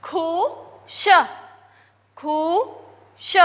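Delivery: खु and श split apart with pauses, then repeated; syllable by syllable. Shown as a demonstration. Teacher sounding out खुश for students, syllable by syllable. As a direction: sound out खु, श separately for children. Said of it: "sleeping line".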